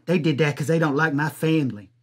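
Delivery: put-on whiny girlfriend. Mimics the girlfriend accusing.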